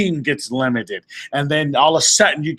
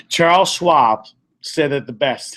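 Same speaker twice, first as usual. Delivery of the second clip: ordinary delivery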